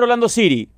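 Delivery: ORLANDO CITY with the t flapped, "Siri"; gringo pronunciation. Retold or imitated. Refusing to pronounce it like this, American-style "Orlando City". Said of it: "yo no voy a pronunciar".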